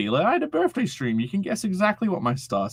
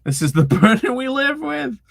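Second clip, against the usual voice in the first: hammed-up lament; 11 semitones higher, 5 dB louder than usual. Shown as a demonstration. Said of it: "repeats it".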